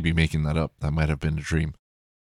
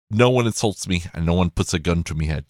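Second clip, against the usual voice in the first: put-on a rough stab at Eccleston's northern English accent; lightly imitated northern England tough guy; poor impersonation; faster than usual. Fan quoting his favourite actor, poor northern English impression. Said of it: "these are poor, poor impersonations of him".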